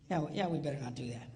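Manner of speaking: quick, laughing give-in; sheepish concession. Retold or imitated. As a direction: cave in with a chuckle. Husband concedes to wife.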